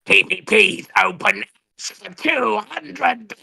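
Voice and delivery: slow possessed rasp; a slow demon voice; Exorcist demon voice. Acted. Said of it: "in the Ashton voice".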